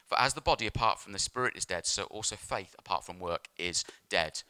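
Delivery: low, soft measured reading; scripture reading. Real, not acted. Preacher reads James to the church, scripture reading. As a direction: read the verse out soberly.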